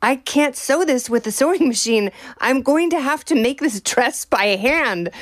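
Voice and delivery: light imitation French accent; a touch of put-on French accent. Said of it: "in her French accent".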